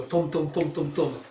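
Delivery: rhythmic, repeated firing noise; imitated rapid shots; crossbow thumps. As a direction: punch out a volley of thuds.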